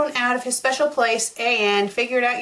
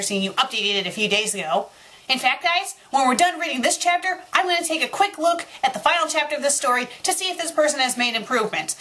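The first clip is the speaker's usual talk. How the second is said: ordinary talk, nothing marked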